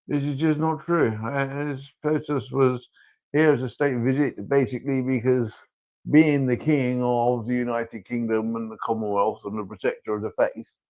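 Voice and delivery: king justifying himself to his son; defensive royal father. Acted. King defending state visit to his son, exasperated. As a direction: explain royal duty, stressing key words.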